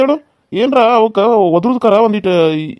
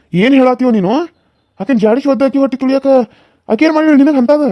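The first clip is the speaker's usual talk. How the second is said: angry confrontation; 5 semitones higher than usual. Acted. Elder confronts the young brother-in-law in rising outraged shouts.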